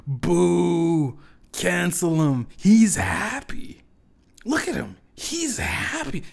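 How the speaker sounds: high, loud mob jeering, slow on "He's happy"; booing crowd. Retold or imitated. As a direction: jeer like an outraged crowd. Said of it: "to boo him and go".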